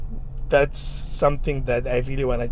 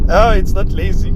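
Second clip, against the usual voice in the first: excited; 6 semitones higher, 6 dB louder than usual. Real, not acted. Surprised by the car's pickup.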